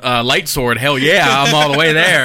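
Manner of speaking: laughing. Real, not acted. Laughing rant about wizards.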